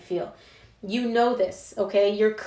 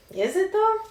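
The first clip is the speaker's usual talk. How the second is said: sarcastic challenge; 10 semitones higher than usual. Real, not acted.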